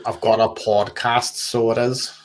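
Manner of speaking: lightly put-on Northern Irish accent, a touch slow; mock Belfast lilt, understated; Phil's accent. Mocking a YouTuber's Northern Irish accent for friends. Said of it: "an impression of, of Phil's accent".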